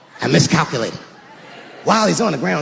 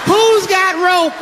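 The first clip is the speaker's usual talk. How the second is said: slow, high, laughing disbelief; laughing repeat; 10 semitones higher, slower than usual. Acted. Comic repeats the rope question laughing, slower. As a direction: stretch it out through a laugh. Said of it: "repeated, slower with laugh".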